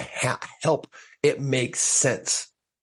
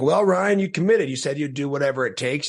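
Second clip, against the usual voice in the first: tag; 4 semitones higher than usual. Retold or imitated. Acted scolding pep talk to himself.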